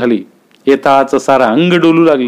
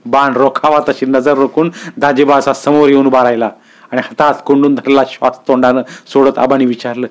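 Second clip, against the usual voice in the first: usual speaking voice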